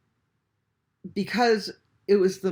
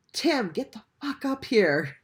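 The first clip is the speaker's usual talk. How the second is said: half-shouted call up to a friend below, higher; retelling a scream, raised and pitched up; retold scream; 6 semitones higher, 3 dB louder than usual. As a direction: yell his name out the window. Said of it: "I screamed at my, at my best friend".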